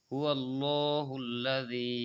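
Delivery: slow recitation, হুয়াল্লাহুল্লাজি with a soft জি at the end. Shown as a demonstration. Teacher showing students the soft জি, slow recitation. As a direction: draw out হুয়াল্লাহুল্লাজি, ending on a gentle জি. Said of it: "জি এটা নরম হবে".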